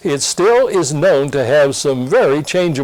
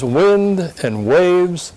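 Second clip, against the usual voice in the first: calm command; 3 semitones higher, much slower than usual. Acted. Jesus commanding the storm, slow and calm. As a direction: say it slowly and calmly, settling the storm. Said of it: "and calmly says".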